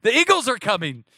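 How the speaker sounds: very high hammed-up alarm; mock panic. Pastor recalls the eagle video, very high mock panic. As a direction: shriek a warning to parents, playfully. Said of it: "And I was like".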